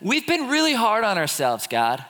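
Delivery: self-pitying worshipper griping to God; mock complaining. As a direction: whine about how hard you've tried. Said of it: "They, they say".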